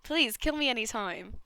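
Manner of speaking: put-on character lines in an amateur Australian accent. Game character talking of hope and despair, Australian accent. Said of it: "speaking in an Australian accent".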